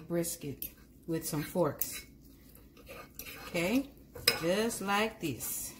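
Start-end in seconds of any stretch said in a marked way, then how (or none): 3.5-5.7 put-on slow, drawn-out Southern accent. Home cook playfully showing viewers her step, mock Southern accent. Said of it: "I always wanted a southern, uh, tone".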